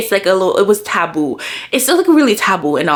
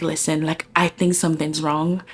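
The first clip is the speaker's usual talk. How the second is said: tearful pleading; 3 semitones lower than usual. Retold or imitated. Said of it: "I'm in tears".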